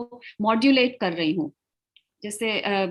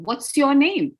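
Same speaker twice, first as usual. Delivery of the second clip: "What's your name" asked with a lifted voice; question intonation; slower than usual. Shown as a demonstration. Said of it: "You're asking like a question".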